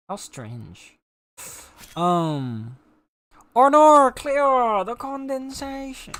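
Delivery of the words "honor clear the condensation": high, loud and slow, a grand butler order; hammed-up posh command. Calling to the servant Honor in a hammed-up posh lord voice. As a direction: play a pompous lord ordering his servant.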